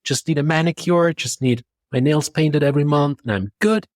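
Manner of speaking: high, thrilled self-quote; excited. Retold or imitated. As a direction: sound delighted and relieved. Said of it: "it was like".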